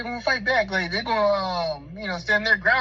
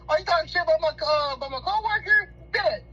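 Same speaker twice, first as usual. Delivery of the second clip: high mock challenge to a rude customer; tough worker; 8 semitones higher, much faster than usual. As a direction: play a Waffle House worker squaring up. Waffle House worker ready to fight.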